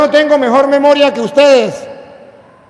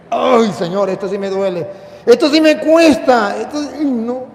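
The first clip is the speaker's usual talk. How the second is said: acted pained reluctance. Acts out wincing at scripture.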